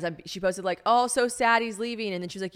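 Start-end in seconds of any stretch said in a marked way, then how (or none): 0.9-2.1 higher, slow, sarcastic lament; mock sadness. Mother posting about son leaving for school, sarcastically sad. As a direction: draw it out in fake sorrow, louder. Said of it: "I'm being sarcastic".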